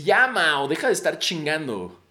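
mock annoyed telling-off; exasperated retort. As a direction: act out someone losing patience. Girl loses patience with him, retold.

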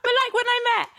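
high laughing voice; giggling through the lines. Real, not acted. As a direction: laugh the words out. Laughing while talking.

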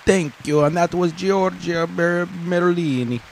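high, loud announcer sign-off; mock announcer. Host thanking the crowd after the speech, mock announcer voice. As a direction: project it high like a stage host, drawn out.

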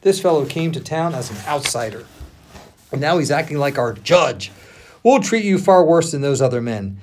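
indignant threat, voice building; shouting crowd. A narrator's reading. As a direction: build from complaint to loud threat. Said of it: "they shouted".

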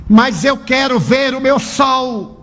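lightly voiced little boy, high and slow; a boy begging his mother, a hint of tears; tearful child plea. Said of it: "meu filho chorando".

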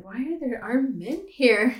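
asking in sudden alarm; alarmed question. Retold or imitated. Retold frightened dentist sees gunmen.

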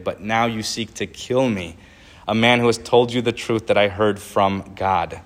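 earnest, measured Bible reading; preacher reading scripture aloud. Acted. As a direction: read the words of Jesus with weight. Reads Jesus' words aloud.

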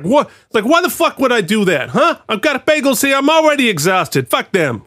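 quoting the bagel shop owner. Retold or imitated. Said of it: "That's what she said".

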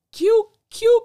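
bursting out laughing, squeaky high; a laugh breaks through the name. Real, not acted. Laughing at Q's line while recapping the show.

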